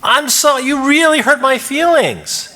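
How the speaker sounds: high, slow, wounded plea; hurt and pleading. Shown as a demonstration. Therapist demonstrating to the workshop how a hurt feeling sounds, slow and pleading. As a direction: let the hurt show as you say it. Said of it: "Can you understand?".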